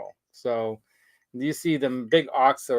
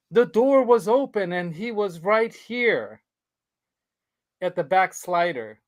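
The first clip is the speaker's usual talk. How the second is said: higher, slower alarmed report; mock alarm; 5 semitones higher, slower than usual. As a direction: retell her fright, drawn out. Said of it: "This time she's like".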